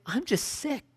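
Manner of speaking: a mock tired groan; weary complainer. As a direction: drag it out like a worn-out Southerner. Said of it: "It's easy for you to say".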